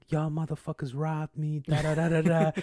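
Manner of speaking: hammed-up yelling at the thieves; mock angry accusation. Imitating the robbed man's accusation.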